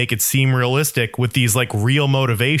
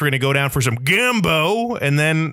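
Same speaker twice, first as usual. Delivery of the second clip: mock Southern accent. Shown as a demonstration. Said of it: "go real Southern on".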